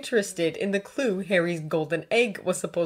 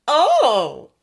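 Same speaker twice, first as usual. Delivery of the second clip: loud, raised, teasing exclamation; gleeful; 8 semitones higher, 10 dB louder than usual. A narrator's reading. Draco spotting Hermione's secret, gleeful. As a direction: relish the discovery. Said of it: "he said gleefully".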